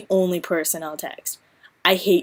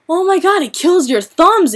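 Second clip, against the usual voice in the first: whiny texter; 8 semitones higher, 4 dB louder than usual. Retold or imitated. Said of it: "a whole scenario thing".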